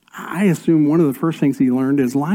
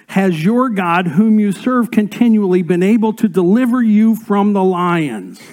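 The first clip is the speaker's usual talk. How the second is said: raised, higher reading of the king's cry; a touch of anguish; 4 semitones higher, 4 dB louder than usual. Acted. Pastor reading the king calling to Daniel, raised. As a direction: call it out with some urgency.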